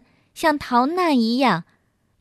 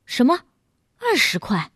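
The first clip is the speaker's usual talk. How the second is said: mildly startled questioning; shocked. A narrator's reading. Passenger hearing the twenty-yuan fare, shocked. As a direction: echo the price in disbelief. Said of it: "惊得眼珠也瞪了出来".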